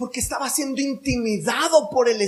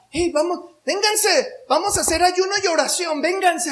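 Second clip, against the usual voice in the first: higher, fast sing-song call; mock pious invitation; 6 semitones higher than usual. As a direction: ham up a false holy summons. Mocking Jezebel's pious call.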